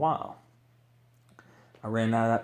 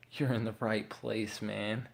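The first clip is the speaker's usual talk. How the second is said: slow, softer, unhurried words of a calm trucker; slow trucker drawl; 5 dB quieter, slower than usual. Retold or imitated. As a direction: take your time on every word, softly. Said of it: "slow with his words".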